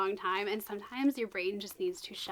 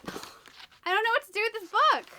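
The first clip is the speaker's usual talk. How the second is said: a higher, sighing, helpless complaint; exasperated sigh; 9 semitones higher, 4 dB louder than usual. Real, not acted. Booktuber giving up on the confusing book, sighed and exasperated. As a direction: sigh it out like you've given up. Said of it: "I'm so all over the place with my reactions".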